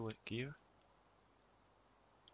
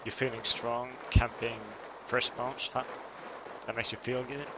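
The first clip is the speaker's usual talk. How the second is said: loud, mocking taunts; taunting; 4 dB louder than usual. Real, not acted. Player loudly mocks the crossbow campers with contempt. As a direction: jeer at them with contempt.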